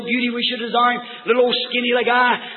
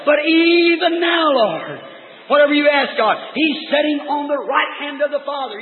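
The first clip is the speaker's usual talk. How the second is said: fervent preaching; 3 semitones higher than usual. Acted. Martha pleading for her dead brother, fervent preaching. Preaches the refrain with rising fervour.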